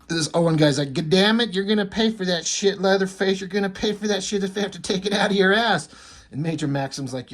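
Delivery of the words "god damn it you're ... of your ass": mock angry threat. Nerd confronts major, acted threat.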